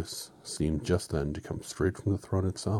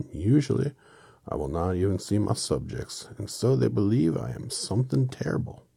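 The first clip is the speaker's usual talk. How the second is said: lightly voiced, lilting, louder character voice; confessing little man; 4 semitones higher, 5 dB louder than usual. Oz explaining his deception to visitors, lilting little-man voice. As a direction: confess it with a touch of theatre. Plays Oz in the story.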